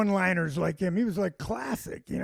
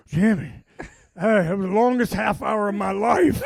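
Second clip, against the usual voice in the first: raised retold complaint; 7 dB louder than usual. Friend's panicked report retold.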